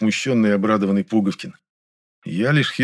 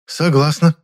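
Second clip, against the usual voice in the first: breathed out agreement; 6 semitones higher, 5 dB louder, slower than usual. A narrator's reading. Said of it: "выдохнула".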